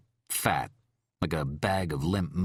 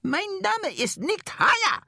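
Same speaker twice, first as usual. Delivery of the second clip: screaming. A narrator's reading. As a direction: scream it out at full voice. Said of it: "And she screamed".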